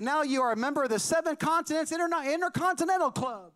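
high, mock-grand presenter voice; hammed-up club induction; ceremonial announcement. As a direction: imitate an official bestowing an honour. Officials' medal announcement acted out.

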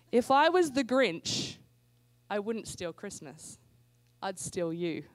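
slow, suggestive cheesy delivery; flirty pickup line. Shown as a demonstration. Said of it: "You deliver it like that with a little bit of an eyebrow".

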